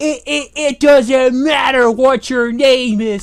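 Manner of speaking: slow, stuttering, stammered wrestler promo-style delivery. Retelling a wrestling moment, quoting The Rock: The Rock impression. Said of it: "and then The Rock is like".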